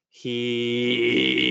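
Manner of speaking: throat singing into scream. Shown as a demonstration. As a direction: clear voice sliding into throat singing then distortion. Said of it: "to sort of demo what you were saying".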